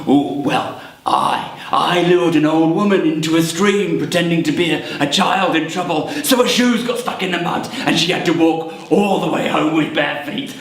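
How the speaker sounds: lightly voiced goblin telling of a prank; boasting goblin. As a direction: gloat a little over the mischief.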